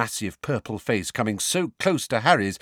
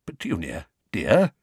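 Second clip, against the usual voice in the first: timid. Acted. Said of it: "said Uncle Vernon timidly".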